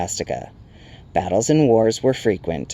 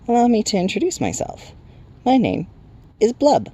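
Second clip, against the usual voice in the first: much higher little sprite voice; timid Will-o'-the-Wisp; 13 semitones higher than usual. A narrator's reading. Timid sprite introducing itself to strangers, high voice. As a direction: introduce yourself shyly, pitched up high. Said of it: "coming timidly closer".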